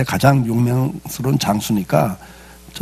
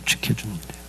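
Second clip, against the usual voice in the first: 지켜주는 repeated much softer, falling away; soft echo; 3 semitones lower, 11 dB quieter, faster than usual. Acted. Preacher softly echoes his point to the congregation. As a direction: let the repeat sink to a quiet echo.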